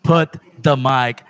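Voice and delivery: mock promo, slow and pointed; wrestling promo. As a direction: call out the champ, wrestling style. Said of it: "I'm gonna cut a promo".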